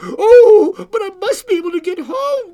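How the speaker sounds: put-on high, loud, urgent child's plea; little girl crying out. A narrator's reading. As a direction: plead like an upset small girl. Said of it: "cried the little girl".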